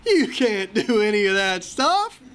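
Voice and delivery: slow, heavy counselor verdict; blunt counselor. Retold or imitated. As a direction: deliver the bad news flatly and slowly. Counselor voiced, shaking his head.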